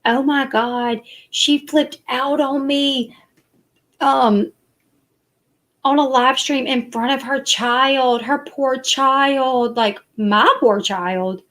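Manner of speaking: slow, drawn-out mock pity; sarcastically imitating Katie's fake concern; mimicking a rival's exaggerated sympathy; mocking whiny tone. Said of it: "she was saying".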